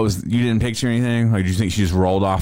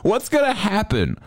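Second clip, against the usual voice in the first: incredulous teasing; 13 semitones higher than usual. Real, not acted. Mocking friend's fear.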